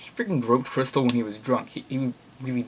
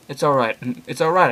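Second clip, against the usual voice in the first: louder reassuring call; 2 semitones higher, 6 dB louder than usual. Acted. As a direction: call out to calm him. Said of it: "I called out".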